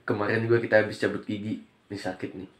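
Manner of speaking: slight lisp from a pulled tooth; lisping after tooth extraction. Real, not acted. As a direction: talk with a sore mouth after a tooth pull, slightly lisping. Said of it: "Makanya ngomongnya agak cadel".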